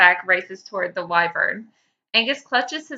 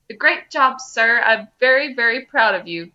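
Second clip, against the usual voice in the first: put-on eager boy praise; 3 semitones higher, 4 dB louder than usual. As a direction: gush like a proud child. Angus praising Taco.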